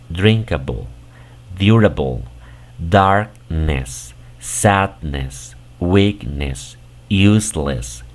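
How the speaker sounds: reading the English words aloud one by one; English word list. Shown as a demonstration. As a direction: model each English word clearly. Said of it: "La pronunciación de todas estas palabras". (lista de palabras en inglés, una por una)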